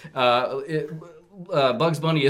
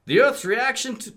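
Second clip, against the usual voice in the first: robot voice; 11 semitones higher than usual. Acted. Voicing a robot.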